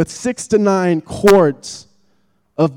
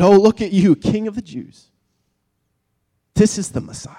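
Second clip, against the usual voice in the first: mild jeer, slightly higher voice; mocking; 3 semitones higher than usual. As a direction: lightly taunt him as mocking soldiers would. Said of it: "he was stripped naked and mocked".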